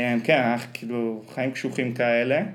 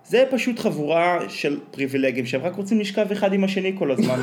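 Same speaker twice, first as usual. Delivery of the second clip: Omer Ben Yaakov impression; 4 semitones higher than usual. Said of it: "מצחיק נורא איך שהוא מדבר".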